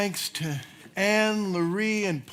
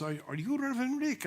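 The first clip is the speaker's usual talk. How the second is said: put-on Cuban accent; 7 semitones higher, 5 dB quieter, faster than usual. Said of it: "a man comes up with a Cuban accent".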